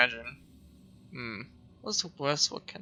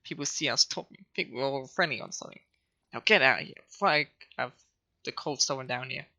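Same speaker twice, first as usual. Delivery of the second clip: snobby voice; faster than usual. Acted. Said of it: "a snobby voice".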